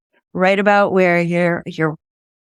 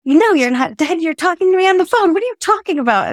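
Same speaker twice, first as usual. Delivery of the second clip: much higher, fast, incredulous mother's voice; baffled mom; 10 semitones higher, faster than usual. Retold or imitated. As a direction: play her mom, baffled and brushing it off.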